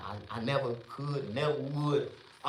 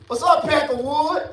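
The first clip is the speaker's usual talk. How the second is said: taunting greeting; 10 semitones higher, 6 dB louder than usual. Retold or imitated. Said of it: "I address all of them".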